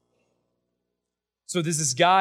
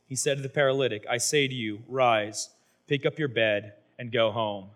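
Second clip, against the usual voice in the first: scripture reading; 2 semitones lower than usual. Acted. Preacher reading Mark two to the congregation, solemn.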